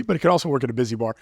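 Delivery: rapid-fire delivery; talking fast. Real, not acted. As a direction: rattle it off fast. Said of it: "talking so fast all of a sudden".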